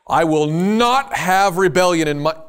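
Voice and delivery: loud, mock authoritarian decree; hammed-up tyrant proclaiming; a stern ruler's mock decree; mock stern God.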